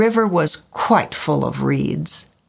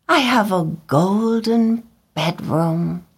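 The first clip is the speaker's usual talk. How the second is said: pleased murmur to himself; softly to himself; 4 semitones higher than usual. A narrator's reading. Swallow admiring the statue, soft to himself. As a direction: savour it privately. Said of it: "he said softly to himself".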